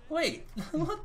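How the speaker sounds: high, baffled squeak; confused. Retold or imitated. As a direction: sound totally thrown. Confused reaction, pitch jump.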